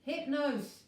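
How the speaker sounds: alarmed cry. A narrator's reading. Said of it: "cried Elliot and Virgo".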